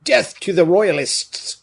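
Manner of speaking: very high, loud, drawn-out yell; excited war cry. A narrator's reading. Hothead in the crowd shouts against the royalists, excited yell. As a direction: yell it like a mob's slogan. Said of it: "cried the most excited of his hearers".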